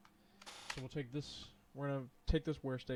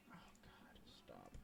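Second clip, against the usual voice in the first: unvoiced groan; 22 dB quieter than usual. Real, not acted. Annoyed at playlist music.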